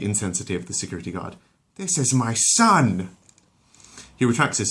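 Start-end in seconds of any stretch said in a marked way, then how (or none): 1.7-3.2 higher, louder, slow furious mother; indignant mum. Acted. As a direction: defend your boy fiercely. Lois angry at guard.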